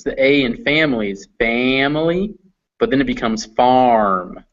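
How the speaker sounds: family with a flat a, then farm with an r-colored ar; R coloring demo. Shown as a demonstration. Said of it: "So for instance".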